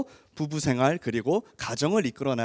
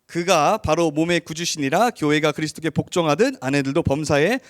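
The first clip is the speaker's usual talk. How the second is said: scripture reading. Acted. Reads scripture aloud.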